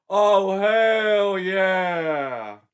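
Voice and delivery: loud, high, pushy jock voice; brash jock. Acted. Joshua pressing Betsy for a date, loud and brash. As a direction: play a cocky meathead asking her out.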